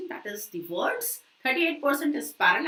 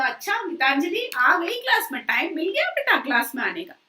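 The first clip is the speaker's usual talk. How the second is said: mock-sarcastic jibe, fast and a bit higher; sarcastic taunt; 5 semitones higher, 4 dB louder, much faster than usual. Teacher imitating a sarcastic remark to a late student, mock sarcastic. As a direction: tease the latecomer with fake welcome. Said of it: "ऐसे sarcasm".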